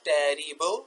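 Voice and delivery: terrible drawn out as te-ri-ble; three sounds. Shown as a demonstration. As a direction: slowly stretch the syllables of terrible. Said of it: "तीन sound रखने वाले words". (terrible को खींचकर, टे-री-बल)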